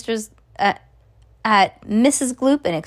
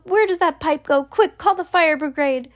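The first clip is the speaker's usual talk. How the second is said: high, urgent cries; Missus Gloop yelling; 7 semitones higher than usual. A narrator's reading. Missus Gloop demanding the fire brigade, high urgent yell. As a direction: pitch it way up and call for help. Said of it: "yelled Missus Gloop".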